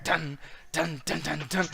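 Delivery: low chanted dun-dun beat; imitated music riff. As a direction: mouth a low entrance riff.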